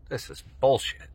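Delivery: loud, high exasperated outburst. Real, not acted. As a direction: blurt it out fed up. Annoyed at a spot on skin.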